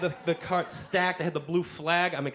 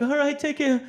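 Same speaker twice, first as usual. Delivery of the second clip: breezy goodbye; 10 semitones higher, 4 dB louder than usual. Retold or imitated. Teen answering the woman.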